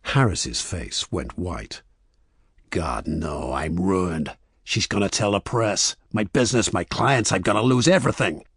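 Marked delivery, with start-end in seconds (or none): 2.7-8.4 mounting panic. A narrator's reading. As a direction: despair spiralling into panic. Man facing ruin, building panic.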